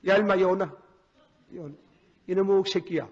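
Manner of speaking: mild mock scolding; a hint of a stern father. Father scolding his son, mildly acted. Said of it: "땅을 두드리고 탈기를 하는 게".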